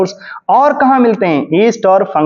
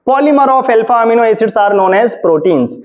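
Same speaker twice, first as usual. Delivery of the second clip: slow dictation; much slower than usual. Shown as a demonstration. Teacher dictates a definition.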